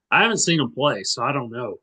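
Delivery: winded, catching breath between words. Real, not acted. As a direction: talk while short of breath. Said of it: "while I catch my breath".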